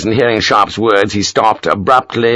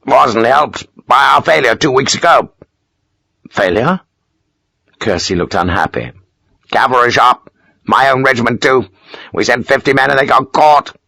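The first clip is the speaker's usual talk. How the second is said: higher, rueful officer voice; unhappy Major; 3 semitones higher than usual. Acted. Major admitting a failed raid to Sharp, rueful. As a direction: admit the failure grudgingly.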